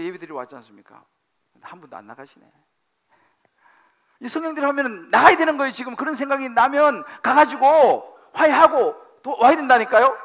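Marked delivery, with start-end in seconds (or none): 4.2-10.2 louder, higher, quick urging; fervent preaching. Acted. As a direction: push them out the door with fervor. Urging congregation to go reconcile.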